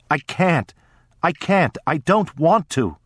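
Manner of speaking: put-on high tearful sobbing child; crying child. A narrator's reading. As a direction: beg through tears, voice high. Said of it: "I cried".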